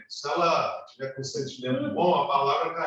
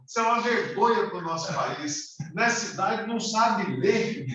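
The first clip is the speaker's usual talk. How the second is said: higher-pitched retold telling-off; mock scolding; 5 semitones higher than usual. Old man berates a stranger who can't read, mock scolding. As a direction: imitate someone laying into a stranger. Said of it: "Aí ele soltou os cachorros".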